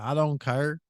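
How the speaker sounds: lightly imitated Southern accent; a hint of Southern twang; Southern country guy. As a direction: mimic a country dude from the South. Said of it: "the Southern dude".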